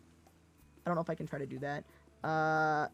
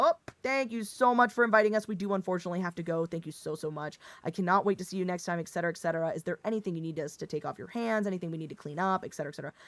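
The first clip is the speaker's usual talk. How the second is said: dad Midwestern goodbye; faster than usual. Shown as a demonstration. Guest making excuses to leave, hint of Midwestern dad politeness. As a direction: launch brightly into a hurried host-thanking routine. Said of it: "the dad Midwestern goodbye".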